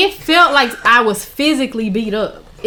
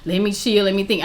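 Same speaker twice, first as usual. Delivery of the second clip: lower, softer self-talk; imagined calm reaction; 4 semitones lower, 6 dB quieter than usual. Retold or imitated. Someone else taking in bad news, imitated calm. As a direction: settle yourself down, low and soft. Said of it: "somebody else would've been like".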